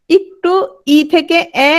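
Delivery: ই stretched slowly into এ, drawn out; slow vowel glide demo. Shown as a demonstration. Teacher shows students the glide, slow and deliberate. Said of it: "দেখো, ই".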